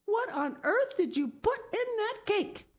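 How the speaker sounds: put-on high, alarmed older woman's question; lightly voiced Marilla. A narrator's reading. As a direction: demand an answer in dismay.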